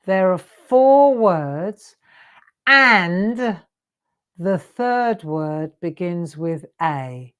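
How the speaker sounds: slow, deliberate clue repeated word by word; slow and clear, stressing four and third; said slowly. Shown as a demonstration. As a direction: spell it out slowly so they catch it. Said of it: "I'll say that again slowly".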